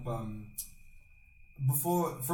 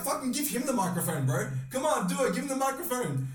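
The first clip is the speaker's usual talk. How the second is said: crowd yell, mild mock; 10 semitones higher than usual. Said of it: "we're all just yelling at him".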